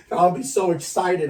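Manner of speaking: light laugh through the words; chuckling as you say it. Real, not acted. Laughing about his own excitement.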